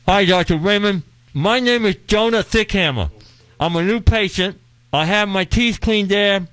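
talking through swollen lips; puffy mouth, words mushy. Pretend. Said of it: "my mouth is so swollen, I can barely talk".

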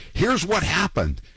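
a hint of a pompous congressman explaining; Ed Markey impression. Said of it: "I pretended to be Ed Markey".

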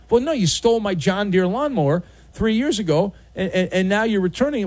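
a touch of mock outrage, stumbling over words; indignant owner. Owner scolds the neighbor who stole his lawnmower, mildly indignant.

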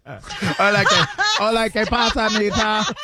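laughing mock Spanish accent; hammed-up Spanish greeting, laughing. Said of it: "Patty would put on a sombrero".

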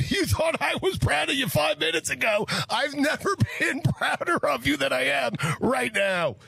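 very high, squeaky mock pride; mock-proud high voice. Co-host teasing the host who admitted never listening, high mock pride. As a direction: gush in a strained upper register. Co-host joking after on-air confession.

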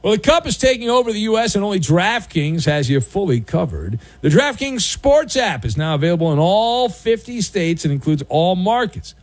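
upbeat sponsor read; radio ad read. Real, not acted. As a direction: sell it like a radio sponsor spot. Reads a sponsor ad.

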